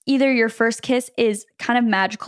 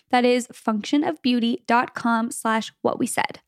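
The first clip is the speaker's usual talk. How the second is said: slow clear url; 2 semitones higher, slower than usual. Shown as a demonstration. Host repeating the sponsor URL slowly and clearly.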